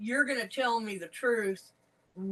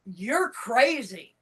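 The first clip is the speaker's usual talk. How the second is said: "crazy" drawn out slowly as the punchline; slow, weighty stress on "crazy"; emphatic CRAZY; 3 dB louder, slower than usual. Retold or imitated. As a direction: stretch "you're crazy" for emphasis. Retold punchline, emphatic second half.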